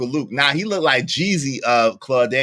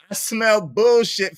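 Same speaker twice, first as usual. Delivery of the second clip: laughing; 6 semitones higher, slower than usual. Real, not acted. Repeats the line laughing.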